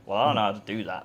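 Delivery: fast, laughing admission; laughing reply. Retold or imitated. Telling the guest his answer to Hamza, fast and laughing. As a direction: rush it out with a laugh.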